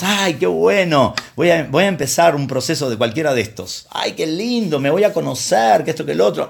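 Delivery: high, gushing mock delight; mock naive enthusiasm. Preacher mocks the eager new patient, high gushing tone. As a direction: play the naive patient excited about therapy.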